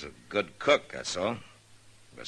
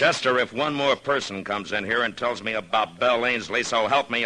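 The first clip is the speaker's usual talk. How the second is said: raised, fed-up warning; exasperated warning; 4 semitones higher, 4 dB louder than usual. Acted. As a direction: threaten mildly, at the end of patience. Marshal exasperated by gossip.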